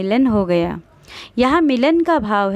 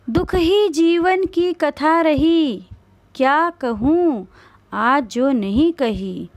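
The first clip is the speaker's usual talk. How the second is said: mournful recitation; 3 semitones higher, slower than usual. Shown as a demonstration. Teacher recites sorrowful poem.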